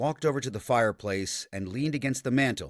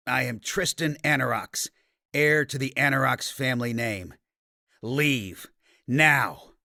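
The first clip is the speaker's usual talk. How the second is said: growled threat, building to a louder "now"; 2 semitones higher, 3 dB louder than usual. Acted. Tristan warning off the mercenaries, growled and rising. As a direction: growl his name, then snap out the command. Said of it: "let his disguise form fade and growled".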